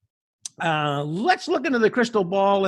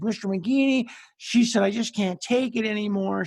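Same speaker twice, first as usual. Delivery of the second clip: imitated crying student; 3 semitones higher than usual. Exhausted student tells her band director she can't continue, imitated mild tearfulness. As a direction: lightly mimic a tearful, worn-out student. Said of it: "and she's crying".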